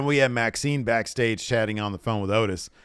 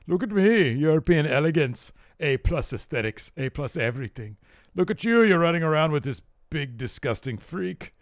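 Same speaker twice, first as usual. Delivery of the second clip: hammed-up Ludwig; 5 semitones higher than usual. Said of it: "And he says".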